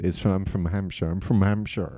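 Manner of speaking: Hampshire accent. Shown as a demonstration. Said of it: "his actual accent".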